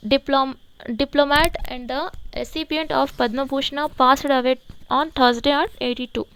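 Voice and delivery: each English word read out very slowly and evenly; slow dictation reading. Shown as a demonstration. Teacher reads the headline to the class, very slow dictation pace. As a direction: read it slowly so students can write it down.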